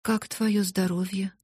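slow, unsure question; hesitant. Acted. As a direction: ask it timidly, holding back. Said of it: "нерешительно спросила она". (нерешительно)

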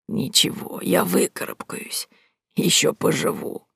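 put-on weak but stubborn old lady; frail old voice. A narrator's reading. Sick old woman reassuring the heroine, frail.

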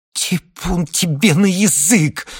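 high, loud, slow horrified cry. Acted. Wife cries out in horror. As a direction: ward off the bad word. Marfa horrified, crossing herself.

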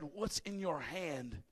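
quiet, slow voice of God; hushed question. Acted. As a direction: drop to a near hush. God's question, quietly repeated.

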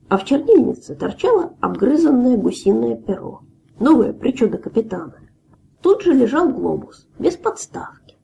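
ordinary delivery

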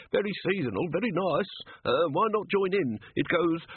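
last desperate pitch; desperate gnome. A narrator's reading. Gnome begging Ridcully to let him stay, high squeak.

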